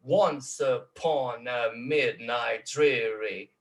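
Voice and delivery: very slow "Once upon a midnight dreary", syllable by syllable; strong-weak trochaic beat. Shown as a demonstration. Lecturer scanning Poe, drawn-out strong-weak beats on "Once upon a midnight dreary". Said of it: "é uma sílaba forte e uma sílaba fraca".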